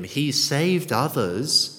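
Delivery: slow, measured mock sneer; acted sneer. Onlookers taunting Jesus on the cross, mildly sneering. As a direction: draw out a mild taunt. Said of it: "They sneered at him".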